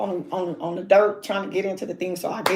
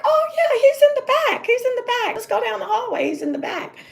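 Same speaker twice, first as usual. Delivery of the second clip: put-on breezy teen. Teen girl cheerfully leading her down the hallway, high and breezy. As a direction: play the carefree girl leading the way. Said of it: "And she was like".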